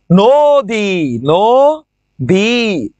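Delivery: নদী said slowly with a short final i; drawn-out নদী pronunciation demo. Shown as a demonstration. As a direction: stretch out নদী to show the short ই sound. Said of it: "রস্ব ইকার হয়ে গেছে".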